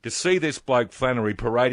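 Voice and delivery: loud, heated opening to the caller; fired up. Real, not acted. Talkback host telling his caller he's angry, fired up. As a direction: come in hot, riled and loud. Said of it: "I'm really fired up".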